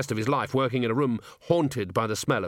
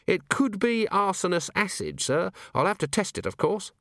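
put-on bright young dwarf; 9 semitones higher than usual. Cheery voiced in reading.

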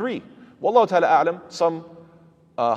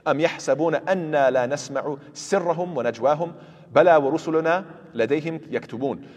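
Quran recitation; much faster than usual. Acted. Teacher quoting a verse to students, recited quickly. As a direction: recite the ayah fluently from memory.

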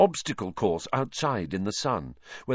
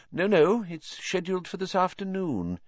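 higher, hearty minister voice; Fudge; 10 semitones higher than usual. A narrator's reading. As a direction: greet him with jovial bluster.

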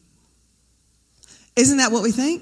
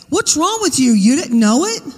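imagined scolding; 3 semitones higher, 4 dB louder than usual. Pretend. Imagined Jesus scolding, loud.

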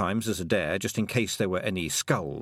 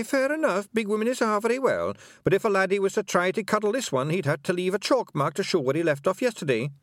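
gossiping pixies; 7 semitones higher than usual. A narrator's reading. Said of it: "how loudly they whispered".

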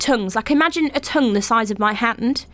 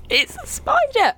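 high, drawn-out panicked cry; acted-out spider alarm; mock panic; slower than usual. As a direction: retell it as a stretched-out, high-pitched wail. Retold panic about the spider.

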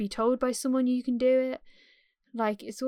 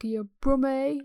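badly attempted, slightly put-on Brummie accent; attempted Birmingham accent; 3 semitones higher, slower than usual. Shown as a demonstration. Midlander failing to show a friend the local accent, hesitant mock Birmingham accent. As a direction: have a half-hearted go at a Brummie accent. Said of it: "I can't even do the Birmingham accent".

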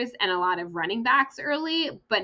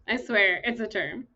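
laughing insistence. Real, not acted.

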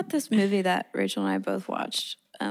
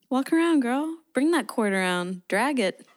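teasing cheer; 4 semitones higher than usual. Real, not acted.

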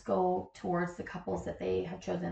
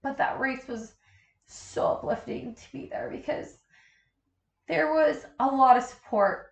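pulling yourself together; 4 semitones higher, 3 dB louder than usual. Real, not acted. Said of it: "Sorry, let me collect myself".

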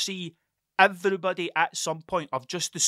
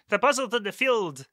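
mock RE teacher; 2 semitones higher than usual. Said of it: "talk to you in R E".

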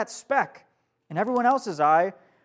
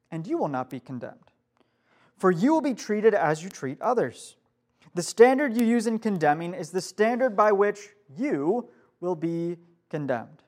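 reading scripture. Shown as a demonstration. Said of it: "to sound something like this".

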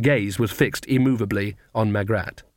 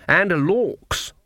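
put-on high, cackling old woman; mock-innocent old crone; old witch voice; 6 semitones higher than usual. Granny's voice continues.

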